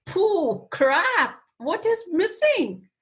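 high, rushed panic breaking into a laugh; panicked inner voice. Retold or imitated. Caught off guard by the question, panicking high. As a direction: squeak it out in a flustered panic. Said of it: "And I feel like".

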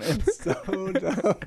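words broken by a real laugh. Real, not acted. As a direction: laugh through the word dumb. Laughing at the joke.

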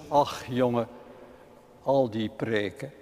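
put-on old mother's sigh. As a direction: let it fade like a tired old woman. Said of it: "En haar antwoord is dus".

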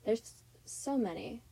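slight lisp from whitening strips. Real, not acted. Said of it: "sorry for my, uh, lisp".

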